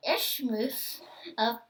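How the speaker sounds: whispered, slow, unsure of the word; nervous whispered attempt. Real, not acted. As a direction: sound out a word you can't say.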